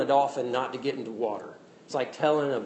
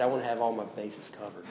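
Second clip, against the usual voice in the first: A singer, serious; 4 semitones lower, 4 dB quieter than usual. Retold or imitated. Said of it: "He's just serious".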